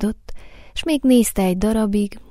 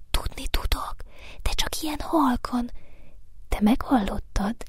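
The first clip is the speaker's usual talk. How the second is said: hushed, half-whispered flower voice; whispering; 3 semitones higher, 4 dB quieter than usual. A narrator's reading. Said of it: "suttogta a hóvirág". (suttogva, halk virághangon)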